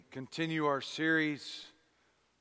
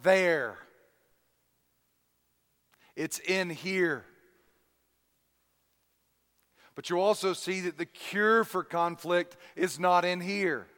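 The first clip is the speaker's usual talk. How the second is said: emphatic preaching; 3 semitones higher, 6 dB louder than usual. Acted. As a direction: drive the point home loudly.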